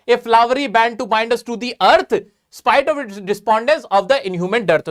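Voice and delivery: reads each English line very slowly and evenly; slow poem recitation. Acted. Teacher reading a Keats line to students, very slow recitation. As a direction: savour the verse word by word.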